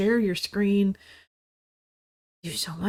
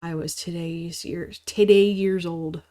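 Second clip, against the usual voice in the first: mocking quote; slower than usual. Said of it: "people did not use the phrase".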